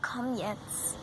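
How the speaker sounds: whispered, hurrying the horse on; hushed push to come along; urgent whisper. Pretend. Horse whispers to Moonlight to hurry up, whispered.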